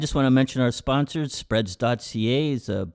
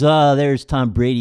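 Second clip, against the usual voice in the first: mock heckle; 2 semitones higher, 8 dB louder than usual. Acted heckler in retold commercial.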